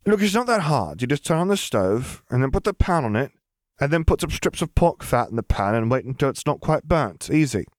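put-on high, breezy girl voice. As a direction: brush it off as easy. Lily explaining cooking.

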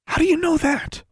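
put-on high, startled girl; surprised question. A narrator's reading. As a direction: ask it with sudden surprise. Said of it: "Alexandra asked".

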